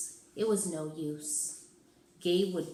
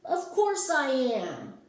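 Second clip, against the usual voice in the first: sharp, high and louder retort; snapped; 7 semitones higher, 6 dB louder, slower than usual. Acted. Cynthia snaps at the kid who asked if she's a girl. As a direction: bite back, offended. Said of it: "she snapped".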